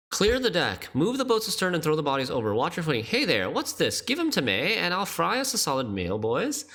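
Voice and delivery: put-on lilting, unplaceable accent with sweeping pitch; put-on sailor accent, English or maybe Irish; imitated sailor accent. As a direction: mimic a ship's cook in a muddled British Isles accent. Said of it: "I don't know what accent that is".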